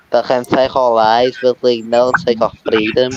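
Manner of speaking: put-on rally the troops in a Scottish accent. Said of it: "I'm now on my Scottish accent".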